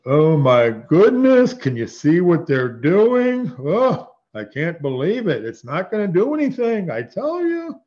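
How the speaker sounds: put-on high, drawn-out, singsong Brooklyn Jewish accent; mocking Jewish accent. Preacher voicing God scoffing at the nations, mock Brooklyn Jewish accent. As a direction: ridicule them in a hammed-up Brooklyn Jewish accent, pitch soaring at phrase ends. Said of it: "That's a ridiculing mock, but it's, like, more like".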